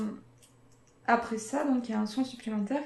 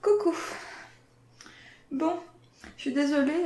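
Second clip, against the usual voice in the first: bright greeting; 5 semitones higher, 3 dB louder than usual. Real, not acted. Back to camera, bright.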